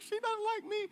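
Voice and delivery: mock a scared, sulking prophet; whiny Elijah. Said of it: "He's like".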